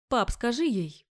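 put-on pleading voice. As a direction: beg dad to take her side. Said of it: "Сделал я голос полным мольбы".

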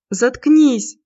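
high, loud laughing shout. A narrator's reading. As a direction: yell it through laughter. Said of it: "со смехом кинула".

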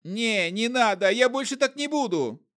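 a trader begging the necromancer for mercy; wailing plea. A narrator's reading. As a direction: wail it in terror. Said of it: "Шнобель так запричитал".

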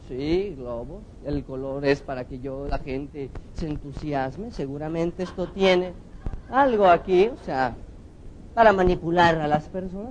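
a hint of a suspicious audience member sizing things up; sceptical judge. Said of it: "el tipo que está juzgando todo".

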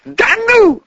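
very high, loud squeal; furious girl squealing at the excuse; shrieking. A narrator's reading. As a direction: screech it in disbelief. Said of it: "взвизгнула девушка".

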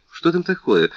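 startled. A narrator's reading. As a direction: ask in sudden alarm. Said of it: "перебила Луиза, быстро вскочив".

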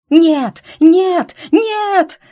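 shrieking high and loud; screaming. Acted. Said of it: "завопила слетевшая с катушек покойница".

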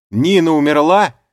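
very loud, high, on the verge of tears; thundering shout. A narrator's reading. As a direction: boom it out, about to sob. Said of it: "прогремел я снова".

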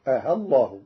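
آه short with the hamza eased between hamza and alif. Shown as a demonstration. Teacher demonstrates the eased, short hamza. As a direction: soften آه and keep it short. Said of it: "بين بين مع القصر".

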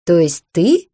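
snorting with laughter. A narrator's reading. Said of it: "фыркнула я от смеха".

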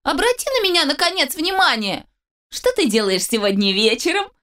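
high, needy whine; whiny pleading. Acted. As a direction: beg for her attention in a high voice. Charles whining for attention.

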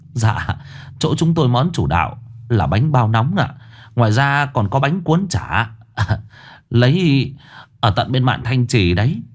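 bowing and scraping to the magistrate; eager shopkeeper. Acted. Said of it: "thì đon đả". (giọng chủ quán khúm núm, đon đả)

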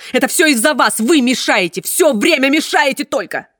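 высоко и громко, последние слова медленнее; кричать, теряя терпение; отчаянный крик. Acted. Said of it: "крикнул он". (доктор в отчаянии кричит на чиновницу)

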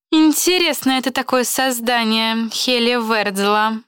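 slow, musing delivery; thoughtful. Acted. Fisa musing about her roommate, slow and thoughtful. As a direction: think aloud, drawing the words out. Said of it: "задумчиво сказала Фиса".

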